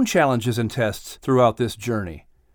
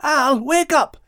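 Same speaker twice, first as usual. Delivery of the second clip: lightly voiced Max; 13 semitones higher, slower than usual. A narrator's reading. Max calls Al.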